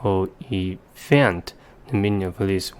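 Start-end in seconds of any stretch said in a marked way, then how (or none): 0.0-1.5 elephant as el-ee-FANT, slow; drawn-out elephant with the weight on FANT; stress on third syllable. Shown as a demonstration. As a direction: land hard on the last syllable of elephant. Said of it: "put the stress on the third syllable".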